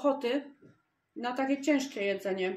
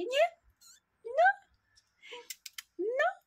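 high, louder sing-song voice for little kittens; cooing pet talk; 7 semitones higher, 5 dB louder, slower than usual. Real, not acted. Woman greeting her kittens in their nursery, high cooing pet talk. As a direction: coo at the kittens like tiny babies.

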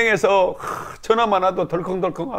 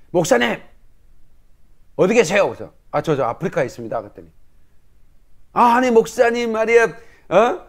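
imitating angry bank clerk; 3 semitones higher than usual. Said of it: "그 직원이 화가 나가지고".

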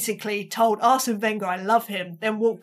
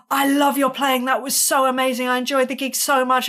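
eager, slightly raised compliments; gushing praise; 3 semitones higher, 4 dB louder than usual. Retold or imitated. Actor praises musician after the gig, mildly gushing. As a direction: lightly imitate an admirer rattling off praise.

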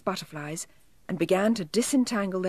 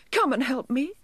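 crying elf; 6 semitones higher than usual. A narrator's reading. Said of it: "he cried".

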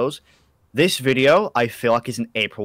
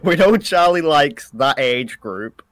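teasing laugh; 4 semitones higher, 6 dB louder, slower than usual. Real, not acted.

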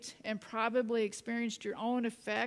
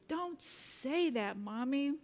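put-on child's protest; 3 semitones higher, slower than usual. Son objecting to mother's love, slow mock protest. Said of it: "Jake yelled back".

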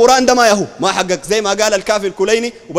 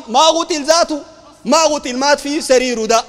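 raised insistence; 3 semitones higher, slower than usual. Real, not acted. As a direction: hammer home the denial, voice raised. Heated rebuttal in debate.

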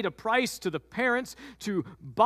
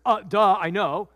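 sarcastic duh; 5 dB louder than usual. Acted. Joseph, sarcastic.

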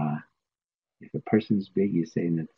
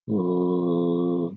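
voiced L sound; 2 semitones lower than usual. Shown as a demonstration. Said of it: "that's what I call voice L".

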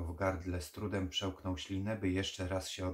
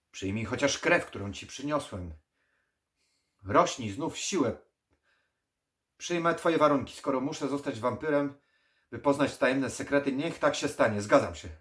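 much higher, loud desperate plea; frantic pleading; 6 semitones higher, 11 dB louder than usual. Acted. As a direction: beg frantically, faking agreement.

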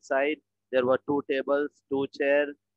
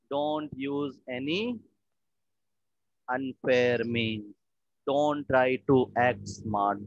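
slow explanation; slower than usual. Shown as a demonstration. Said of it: "explaining the idiom slowly".

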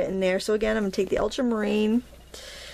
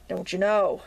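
put-on Maine accent. Painter teasing viewers in a light Maine accent. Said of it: "That's a Maine accent, folks".

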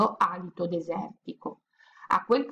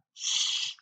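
hushing; 5 dB quieter than usual. Acted. Hushing parents to listen.

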